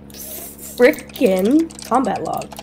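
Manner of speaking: frickin drawn out slowly, censored swear; stress on frickin. Shown as a demonstration. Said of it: "See what I did there?".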